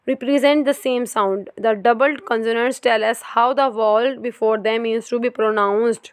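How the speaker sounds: very slow, careful reading from the book; textbook reading. Acted. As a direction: read each word out deliberately. Reads textbook aloud.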